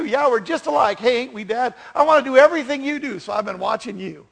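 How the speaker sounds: high, loud country twang, easing off at the end; hammed-up twangy boy gushing at Dad; corny country kid with a twang. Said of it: "You gotta say it with a twang".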